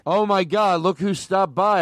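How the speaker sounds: joyful reunion. Pretend. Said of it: "Let me, let me say that".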